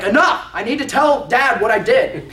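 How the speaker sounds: imitating a kid bursting out, high and loud; high, emphatic outburst of mock impatience; overwhelmed excitement. Pumped-up boy can't wait to tell Dad, acted overwhelmed excitement. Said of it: "so overwhelmed with excitement and emotion".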